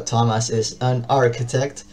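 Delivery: "Thomas is an architect" spoken slowly, word by word; slow demo. Shown as a demonstration. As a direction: take it slowly so every word is clear. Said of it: "yo lo digo lento". (frase en inglés dicha lento y separada)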